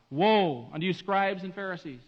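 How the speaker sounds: mild lament of pity; sorrowful woe. Retold or imitated. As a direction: say the woe with pity, not anger. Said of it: "conveys sadness".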